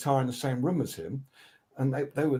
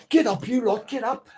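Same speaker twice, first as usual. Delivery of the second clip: high loud rallying call; a singer urging everyone; 11 semitones higher, 6 dB louder than usual. Retold or imitated. The singer ordering band to dance, high and loud. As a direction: get the room up dancing. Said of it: "he goes".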